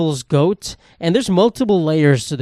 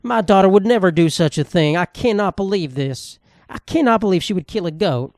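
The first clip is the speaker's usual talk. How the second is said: shocked Facebook mom; 4 semitones higher than usual. Retold or imitated. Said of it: "All the Facebook moms".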